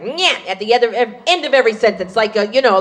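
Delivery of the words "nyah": mock North Jersey Jewish "nyah"; North Jersey Jewish dialect. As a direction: whine out a North Jersey verbal tic. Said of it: "North Jersey Jewish dialect".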